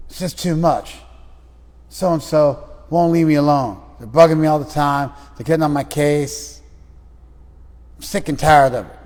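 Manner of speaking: acted frustration. Client venting about someone riding them, frustrated. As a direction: vent loudly, fed up with being bugged. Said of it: "You sound pretty frustrated".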